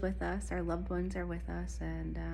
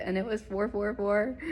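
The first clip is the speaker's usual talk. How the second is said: excited; 4 semitones higher, 5 dB louder than usual. Real, not acted. Second 444 plate, thrilled.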